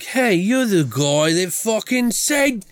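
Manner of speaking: high, slow mocking thug voice, cracking into a laugh; silly high voice for a biker gang's threat. Gang member's threat acted out.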